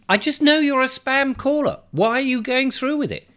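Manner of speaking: exasperated inner voice. Retold or imitated. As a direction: roll your eyes at the caller. Exasperated thought at spam caller.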